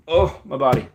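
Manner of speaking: high strained groan while stretching. Real, not acted. Stretching at the desk, a high achy groan. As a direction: let the body ache come out in a high groan.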